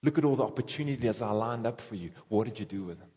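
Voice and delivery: a hint of a judging master; solemn God asking. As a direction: ask it low and searching, like a master settling accounts. Voicing God demanding an account.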